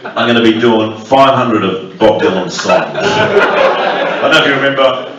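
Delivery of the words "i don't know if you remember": lightly voiced slow mumble; a hint of a drawling folk singer; impression of a singer. Comic mocking a singer's voice, a slow lightly voiced mumble. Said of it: "That was a voice of a generation".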